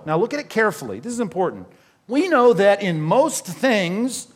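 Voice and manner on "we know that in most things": most leaned on in a slow, louder reading; slow, emphatic scripture reading with most stressed. Shown as a demonstration. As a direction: draw out the verse and lean on most. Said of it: "underline the word most there".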